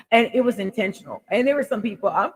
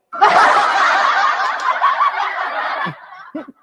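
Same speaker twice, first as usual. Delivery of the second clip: loud high burst of laughter; big laugh; 6 dB louder than usual. Real, not acted. Vlogger laughing at her wild-child confession, loud laugh. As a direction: crack up at your own joke.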